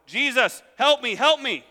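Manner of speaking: loud, high acted plea; crying out. Blind beggar calls to Jesus over the crowd, crying out. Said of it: "And so he cries out even more".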